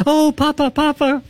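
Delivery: high little voice for the dog; lightly voiced pet, high and cute; dog voiced as child. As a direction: squeak it out like the pet calling. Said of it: "She's like".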